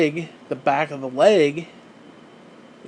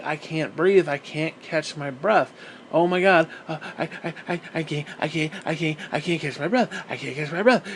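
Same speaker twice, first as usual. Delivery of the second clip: panicked gasping; 3 dB quieter than usual. Retold or imitated. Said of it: "and you're like".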